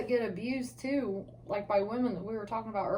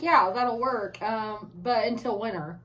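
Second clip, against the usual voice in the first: mock husband quote; 3 dB louder, slower than usual. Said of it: "And you're like".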